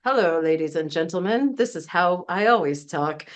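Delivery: mock buttoned-up corporate voice, lightly done; a hint of a formal corporate speaker; stiff formal voice. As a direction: play a stiff announcer. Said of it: "So the buttoned up brand voice".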